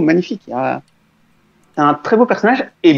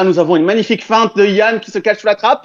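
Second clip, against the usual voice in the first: frantic mock sports commentary; 5 semitones higher than usual. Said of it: "je passais en mode commentateur sportif".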